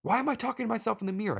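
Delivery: high-pitched, incredulous self-interrogation; exasperated questions, pitch jumping up; questioning himself aloud. Acted. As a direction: challenge yourself in bewildered disbelief. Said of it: "I question out loud".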